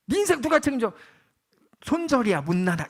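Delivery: loud, high imitation of a scoffer; mock someone's life choices, starting high and loud; mocking scorn. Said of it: "비웃겠죠". (큰 소리로 비웃는 흉내)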